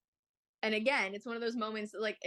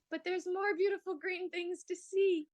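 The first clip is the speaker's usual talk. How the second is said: sing-song parent voice; 11 semitones higher than usual. Retold or imitated. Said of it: "And we're like".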